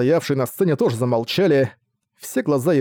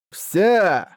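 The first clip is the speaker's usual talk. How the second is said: mock orc shout, a bit higher; guttural rough orc roar; 5 semitones higher than usual. A narrator's reading. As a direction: bellow it like a warrior orc. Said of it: "и он закричал". (рык орка-воина)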